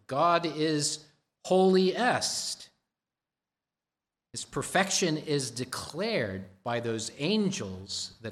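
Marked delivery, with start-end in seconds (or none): 0.1-2.7 "holiest" lifted high and loud; stress on holiest. Shown as a demonstration. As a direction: land hard on "holiest". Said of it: "It is the perfection of holy".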